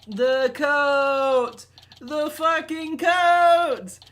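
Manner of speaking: furious high scream; yelling. Real, not acted. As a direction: scream it in outrage. Outburst at the game.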